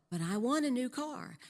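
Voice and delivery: a lightly voiced husband pushing harder for the car; husband pleading harder. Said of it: "that went like this".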